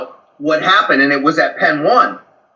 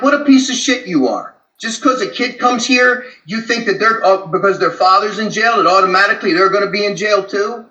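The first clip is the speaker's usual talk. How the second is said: angry rebuke; 3 semitones higher than usual. Retold or imitated.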